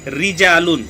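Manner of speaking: रिजालुन with a light, thin r. Shown as a demonstration. Teacher demonstrating a thin ra for students. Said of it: "रा के नीचे जेर है तो ये बारीक है".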